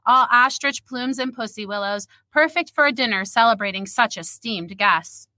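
steady storyteller read, characters lightly voiced; measured, literary reading voice; story narration. A narrator's reading. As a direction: read the scene aloud like a novel. Reads her story aloud.

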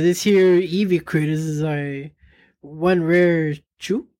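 a hint of a folksy old timer; folksy country voice. Folksy Bill continues.

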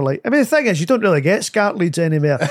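lightly voiced rambling uncle; a hint of an uncle's aimless patter; Frank. Shown as a demonstration. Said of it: "I would try and start with a non sequitur".

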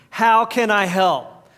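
slow, deliberate unison recital; congregation recital. Shown as a demonstration. Pastor leading the church in a slow spoken response. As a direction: lead the room through it slowly. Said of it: "Say it with me".

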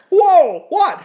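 very high, loud squeal of disbelief; utter astonishment. Acted. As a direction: blow up with amazed shock, far over the top. Acts out astonishment, bigger second take.

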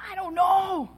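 high, loud exasperated cry, retold; mad. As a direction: throw it back at them, high and loud, as acted frustration. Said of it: "And I'm mad".

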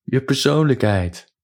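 mock yell up the stairwell; restrained shout upstairs. A narrator's reading. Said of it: "schreeuwde naar boven". (ingehouden naar boven geroepen, hoog)

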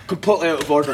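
mild mock outrage; retold disapproval. Goalie judging the penalty spot prank, mildly outraged. Sandy disapproves, first take.

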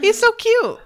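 very high, loud squeal on "so"; squealing cute. Real, not acted. To co-hosts about the goldfish, a high delighted squeal. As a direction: squeal "He's so cute" with "so" shot way up.

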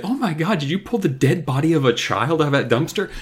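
imitating an appalled child; mock shock. Chris seeing a body from the dumpster, mock shock. Acting Chris's horrified reaction.

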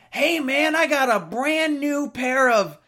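high, eager hustler's greeting; hammed-up friendly stranger; friendly sales pitch.

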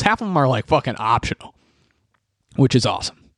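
slipped into a Chicago accent on optional; Chicago vowels on "optional", a flat nasal "ah"; unplanned Chicago accent. Real, not acted. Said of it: "That was, that was Chicago accent right there".

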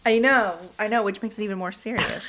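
stifled giggles. Real, not acted. Co-host giggling through serious story.

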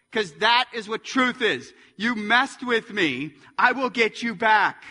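loud, forceful mock threat; vengeful self. Preacher voicing the self that seeks revenge, loud and vengeful.

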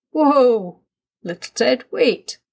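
urgent halt. A narrator's reading. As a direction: voice a dad halting an eager child. Daddy stops eager child jumping.

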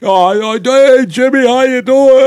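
exaggerated high-pitched mimicry; mock friendly greeting. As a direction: impersonate an over-eager phone greeting. Voicing Bill suddenly friendly on phone.

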